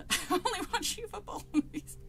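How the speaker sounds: put-on high-pitched silly British accent, near laughing; hammed-up fake British; mock British accent. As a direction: goof around in a British accent. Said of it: "Go posh".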